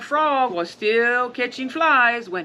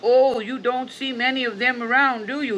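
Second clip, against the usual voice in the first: higher, small-mouthed frog voice; tiny-mouthed frog; 4 semitones higher than usual. Acted. Scared frog hiding his big mouth from the alligator. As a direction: squeeze the mouth small and play innocent. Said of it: "made his mouth as small as possible".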